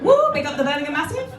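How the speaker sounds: lightly put-on street hype; big them up, half in jest; mock Birmingham hype. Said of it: "I don't talk like that".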